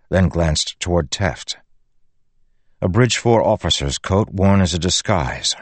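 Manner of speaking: usual speaking voice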